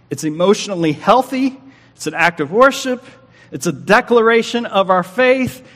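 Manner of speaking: rising, emphatic pulpit preaching. Acted. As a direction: build the declaration with passion.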